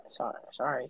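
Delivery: quick quiet sorry; hasty apology. Real, not acted. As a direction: apologize softly and fast. Apologizing after being hushed.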